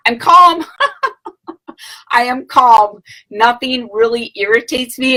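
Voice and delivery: high, playful put-on calm; mock serene. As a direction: chirp it like the picture of serenity. Answering coworkers' question, playful.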